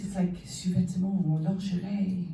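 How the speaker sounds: sous-vêtements, lingerie, breathy French; French words. Shown as a demonstration. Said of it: "in France".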